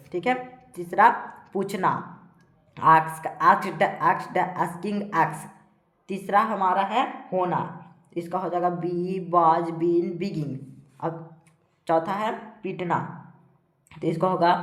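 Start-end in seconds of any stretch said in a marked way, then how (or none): 2.8-5.5 evenly spaced word-by-word list; steady classroom drill; verb drill recitation. Shown as a demonstration. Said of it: "इसको इस प्रकार से पढ़ेंगे". 8.7-10.6 evenly spaced word-by-word list; steady classroom drill; verb drill recitation. Shown as a demonstration. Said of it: "पढ़ पढ़ के आप लोग को बताएंगे".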